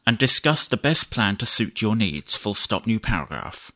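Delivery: measured dictation, punctuation spoken aloud; slow dictation with punctuation. Shown as a demonstration. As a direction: dictate to the computer, clear and even. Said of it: "I'll do some basic dictation".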